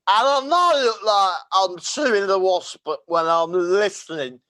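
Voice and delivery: high, loud, slow mocking politician voice; drunken slurring Pelosi parody; Nancy Pelosi impression. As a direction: ham up a tipsy Pelosi. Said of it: "That's my impression of Nancy Pelosi".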